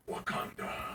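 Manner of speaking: breathy whispered secret. Retold or imitated. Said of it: "She leans in closer and goes".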